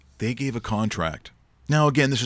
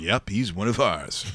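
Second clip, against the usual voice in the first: Australian accent, mock; slower than usual. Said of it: "What is that, Paul Hogan over there?".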